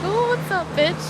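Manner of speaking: high, loud playful hello; loud, high sassy greeting; excited greeting. Retold or imitated. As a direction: greet a friend cheekily. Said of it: "and I was like".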